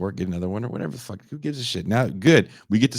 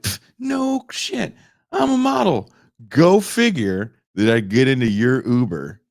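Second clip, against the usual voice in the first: high, louder, slowed mock scoff; mock snooty model; 4 semitones higher, 6 dB louder than usual. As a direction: sneer it like a smug model. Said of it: "And she's like".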